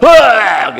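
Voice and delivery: bentakan keras dengan nada tinggi; teriakan marah. Retold or imitated. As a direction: berteriak lantang seperti anak yang marah karena terganggu. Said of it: "dia berteriak". (teriak marah, tinggi dan keras)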